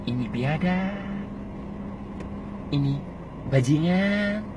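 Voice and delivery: quiet measured "Ini bajingan"; low and calm. Shown as a demonstration. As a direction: say it softly, slowly.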